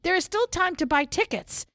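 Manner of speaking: brisk upbeat announcer read. Pretend. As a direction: read the links like a show announcer. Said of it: "since you want me to use my announcer voice with the links".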